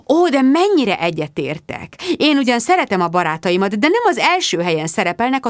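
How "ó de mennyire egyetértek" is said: eager agreement. A narrator's reading.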